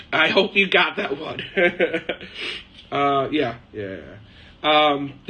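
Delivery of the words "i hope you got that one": higher-pitched, through real laughter; laughing. Real, not acted. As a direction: crack up at your own joke while talking. Laughing at own joking answer.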